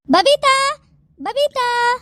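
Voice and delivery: drawn-out summons by name; calling out. Acted. Aunt summoning her sister's daughter-in-law, calling out. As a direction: call her in from another room.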